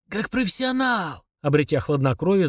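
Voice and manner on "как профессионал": slow, higher mock repeat; the major sneering at the drunk's claim; sinister mocking echo. A narrator's reading. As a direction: throw his word back menacingly. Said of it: "зловеще процедил Дудуев".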